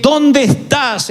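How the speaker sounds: slow, sorrowful longing question; sad call. Shown as a demonstration. Preacher shows God's call to Adam as sad and longing. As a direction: ask it grieving, hoping they come back. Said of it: "Pienso que la voz sonó triste".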